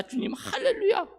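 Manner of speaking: laughing with delight to the Lord; joyful praise. Retold or imitated. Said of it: "하면서 너무 신나게".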